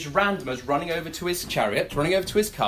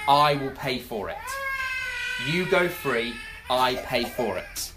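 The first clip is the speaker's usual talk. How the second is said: choked up; slower than usual. Real, not acted. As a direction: voice catching with real tears on the words. Tearful as grace is described.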